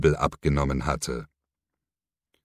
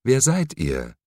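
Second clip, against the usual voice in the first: asked again in a higher voice; second ask, pitched up; repeated question, higher; 7 semitones higher than usual. A narrator's reading. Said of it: "wiederholte sie".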